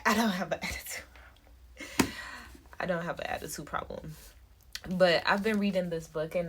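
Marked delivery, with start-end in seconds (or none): 0.1-2.1 words breaking up into breathy laughter; laughing. Real, not acted. Correcting own negative self-talk, laughing. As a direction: laugh through it, voice dropping out.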